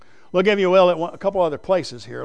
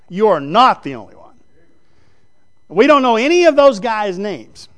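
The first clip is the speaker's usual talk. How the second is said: loud, raised pulpit voice; preaching at full force; 5 semitones higher, 8 dB louder than usual. Acted. Preacher telling his congregation they are not the only one, loud and high. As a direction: drive the point home with fire. Preacher acts out Elijah and God.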